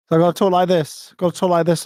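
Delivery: loud, close-up commentator voice; a hint of vintage radio commentator; old-timey commentator. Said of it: "like an old-timey commentator".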